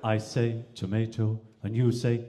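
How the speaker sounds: posh English, low and even; posh English accent. Acted. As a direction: play a very posh English gentleman. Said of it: "a very posh Englishman".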